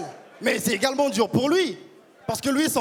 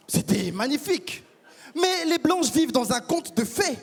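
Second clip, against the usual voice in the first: proud Congolese man. Acted. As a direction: play a pompous Congolese gent musing on love. Congolese persona on stage.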